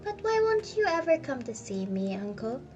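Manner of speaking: pleading. Acted. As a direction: implore your uncle. Nephew pleads with uncle.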